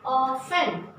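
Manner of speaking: "often" read as OFF-en; "often" with no T, two clear syllables; silent T. Shown as a demonstration. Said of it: "T is silent".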